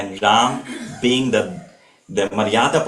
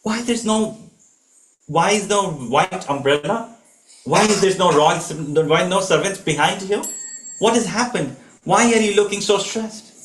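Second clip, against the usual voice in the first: Sita's worried questions, pitched higher; a wife alarmed at her husband's sad face; lightly voiced anxious wife; 5 semitones higher than usual. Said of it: "Sita sees him".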